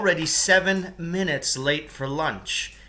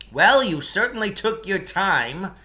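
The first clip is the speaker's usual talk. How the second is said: higher, louder, sarcastic complaint; sarcastic Lance; 7 semitones higher, 5 dB louder than usual. Acted. Lance sarcastically scolding the late rescuers, higher and louder.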